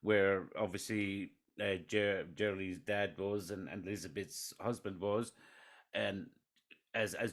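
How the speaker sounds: soft, faint voice; speaking too quietly to hear; barely audible. Real, not acted. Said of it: "your voice is very low".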